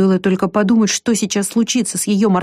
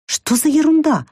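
high puzzled question; 9 semitones higher than usual. Acted. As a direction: ask it high and baffled. Girl puzzled by the poster.

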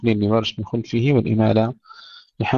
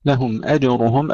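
Quranic recitation; 3 semitones higher than usual. Shown as a demonstration. Recited verse. (تلاوة مجودة بطيئة)

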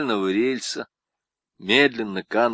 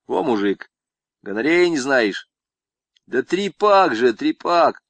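lightly voiced swaggering con, pitched up; boastful convict; 5 semitones higher, 5 dB louder than usual. Convict brags to Zamaraev about women, lightly voiced. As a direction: brag like a cocky camp inmate.

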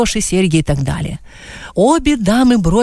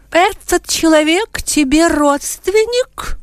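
higher, slow probing question; inquisitorial tone; 10 semitones higher, slower than usual. A narrator's reading. Mrs Einer questioning Mrs Wacher, slow inquisitorial tone. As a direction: interrogate her like an inquisitor. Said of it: "инквизиторским тоном спросила".

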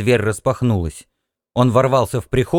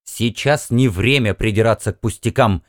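decisive. Acted. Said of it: "решительно заявил он".

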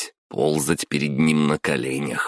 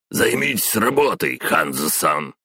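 sharp retort. Acted. Boss throwing a harsh order after the leaving intern, sharply. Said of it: "резко бросил мне вслед Самай".

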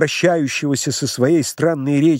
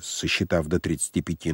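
usual speaking voice

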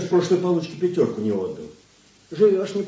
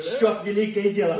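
being tickled; 4 semitones higher than usual. Acted.

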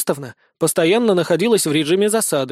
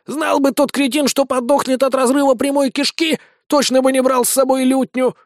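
high-pitched creature grumbling; scornful snail; 7 semitones higher than usual. Acted. (язвительная улитка высоким голосом)

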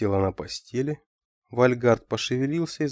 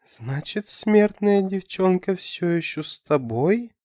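bitter irony; 8 semitones higher, slower than usual. A narrator's reading. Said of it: "злая ирония и новый горький опыт".

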